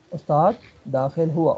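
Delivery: slow, deliberate استاد داخل ہوا with each word spaced; slow model phrase. Shown as a demonstration. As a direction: say استاد داخل ہوا slowly for the student to follow. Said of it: "ٹھیک ہے، استاد داخل ہوا".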